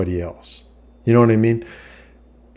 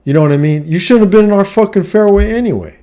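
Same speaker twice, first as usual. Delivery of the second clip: higher and louder, mock telling-off; retold angry yell; 4 semitones higher, 3 dB louder than usual. Retelling the yell at the golfer in the wrong fairway, heated. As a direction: hammer the rude golfer with it. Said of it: "And I said".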